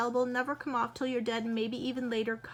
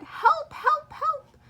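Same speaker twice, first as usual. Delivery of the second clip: high, loud frantic cries for help; panicked call; 6 semitones higher, 4 dB louder than usual. Acted. Mother phoning the doctor about her daughter, frantic.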